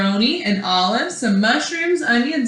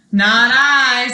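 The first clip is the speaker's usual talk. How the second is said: loud refusal; 6 dB louder than usual. Acted. Duck refuses.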